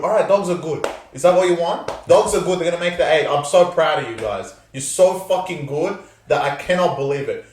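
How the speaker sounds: mock praise for the Dogs, openly sarcastic. Podcaster sarcastically praising rival fans, sarcastic. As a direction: concede with heavy sarcasm. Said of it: "You can hear the sarcasm in my voice".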